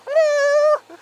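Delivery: loud, very high hail to passing cyclists; calling out. Real, not acted. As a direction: shout a greeting across the road.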